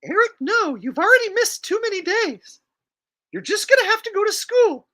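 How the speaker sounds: very high falsetto mom voice; loud, high-pitched scolding mother; cartoon mother. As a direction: refuse the kid in a piercing falsetto. Acting Cartman's mother replying.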